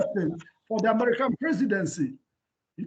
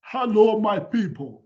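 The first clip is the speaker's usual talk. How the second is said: Mandela voice; 3 dB louder than usual. Retold or imitated. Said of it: "Whenever you hear Madiba's voice".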